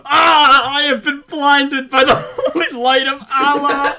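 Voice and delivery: mock-anguished yell, breaking into laughter; playful melodramatic outcry with a laugh. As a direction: yell it like a hammed-up cry of agony. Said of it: "that's just me yelling like".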